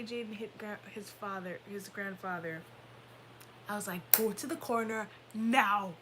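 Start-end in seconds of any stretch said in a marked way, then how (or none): 4.1-5.9 firm parental command, leaning on NOW; stern order. Retold or imitated. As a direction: send a child off, no arguing. Retold order to child.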